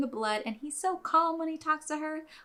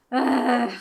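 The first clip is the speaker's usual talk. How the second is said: louder fed-up groan; exasperated groan; 5 dB louder than usual. Real, not acted. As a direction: let out an exasperated ugh. Exasperated at customer asking again.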